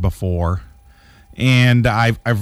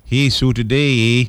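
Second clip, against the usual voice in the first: mock Canadian accent. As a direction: draw it out in fake Canadian. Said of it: "that's Canada".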